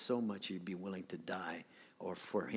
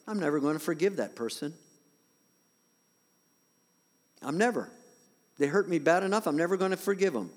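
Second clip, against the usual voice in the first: grudging voice; 7 semitones higher, 8 dB louder, faster than usual. Retold or imitated. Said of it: "an attitude like".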